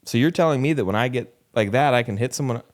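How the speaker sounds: put-on a kid poking holes in the parent's logic; mock incredulous child.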